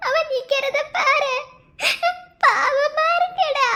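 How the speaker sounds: sobbing, begging; crying plea. Acted. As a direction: beg him through tears to stop it. Bride begging groom through tears.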